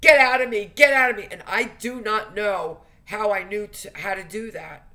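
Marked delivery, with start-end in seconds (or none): 0.0-1.3 loud, high shouted command, retold; a fierce, much higher retold shout of get out. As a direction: yell it at the demon as you relive it. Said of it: "I was just going".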